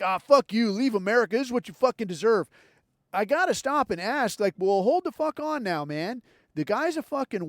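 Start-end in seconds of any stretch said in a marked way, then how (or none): 0.0-2.5 louder mock taunt, spat out; imitated taunting. Imitating Twitter users taunting the welder, loud mocking. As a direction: gloat like a smug Twitter poster. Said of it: "the people are like".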